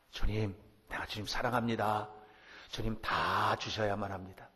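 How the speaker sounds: a lightly voiced bold prayer, steady. Shown as a demonstration. The preacher models a shameless prayer for the congregation, plainly. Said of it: "한번 따라서 해보세요".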